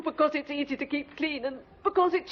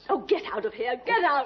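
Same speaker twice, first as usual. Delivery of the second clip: loud, rising get out; hysterical order; 4 dB louder than usual. Acted. Suspect orders the inspector out, loud and hysterical. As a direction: throw him out, near hysterics.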